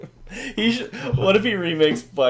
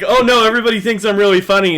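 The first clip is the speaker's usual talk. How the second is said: mock Tyler Perry; 5 semitones higher, 7 dB louder, faster than usual. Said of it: "to be like".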